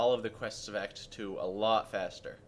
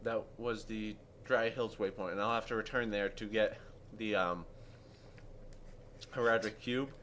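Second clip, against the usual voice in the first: mouth full; 4 dB quieter than usual. Real, not acted. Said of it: "Talking with your mouth full".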